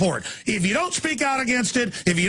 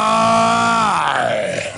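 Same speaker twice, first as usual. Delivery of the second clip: angry yell. Real, not acted. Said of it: "man, I'm getting angry".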